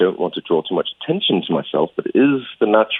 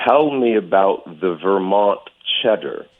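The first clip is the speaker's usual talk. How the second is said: American accent. Shown as a demonstration. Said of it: "say something in an American accent".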